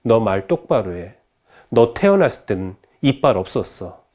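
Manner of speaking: controlled, deadpan reproach; acted straight-faced retort; stern mother. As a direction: drop the heat and set her straight. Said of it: "정색을 하면서 이렇게 말해요".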